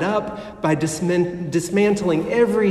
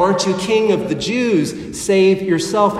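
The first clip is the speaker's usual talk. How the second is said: louder jeering taunt, pushing at the end; loud mocking; 3 semitones higher, 3 dB louder than usual. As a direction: shout the mockery up at him. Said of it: "The soldiers mock him".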